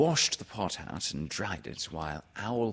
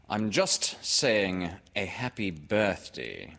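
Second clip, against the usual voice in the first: slow, offhand storybook remark; understated casual character line; careless; slower than usual. Acted. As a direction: toss it off with leisurely unconcern. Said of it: "said Owl carelessly".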